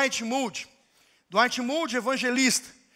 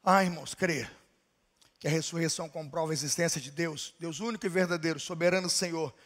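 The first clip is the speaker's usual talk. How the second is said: low, soft pastoral voice; calm closing; 6 semitones lower, 6 dB quieter than usual. Acted. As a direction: settle the church gently toward prayer. Quiet closing before prayer.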